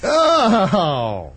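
high startled "oh"; surprised. Real, not acted. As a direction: gasp it out in shock. Reacting to mares' sex drive.

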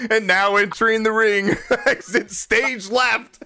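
slow laughing announcer intro; ring announcer. Pretend.

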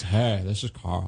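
slow imitation of a friend's greeting; lightly mocking buddy imitation; Carl. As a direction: draw out the hey in a put-on voice. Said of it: "the first thing out of his mouth is always".

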